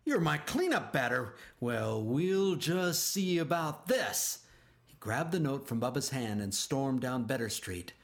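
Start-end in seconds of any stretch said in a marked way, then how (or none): 0.0-4.4 angry coach. A narrator's reading.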